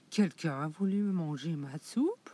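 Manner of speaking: a touch of cross mama bear; lightly voiced annoyed mother bear; angry mama bear. La maman ours voit sa cuillère, un peu fâchée. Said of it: "d'une voix fâchée".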